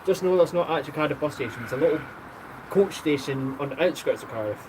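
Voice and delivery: put-on a clumsy go at a Welsh accent; dodgy Welsh accent. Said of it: "a very dodgy Welsh accent".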